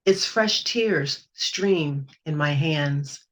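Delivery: slow, measured poetry recital; poem reading. Acted. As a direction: read each image with care. Reads her poem aloud.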